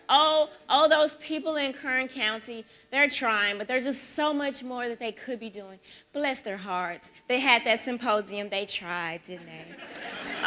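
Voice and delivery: lightly voiced sugary Southern pity; a hint of a condescending Southern lady, fading off; bless-your-heart Southerner. Mocking a Southern woman's pity for Kern County, lightly voiced. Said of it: "that Southern bless your heart".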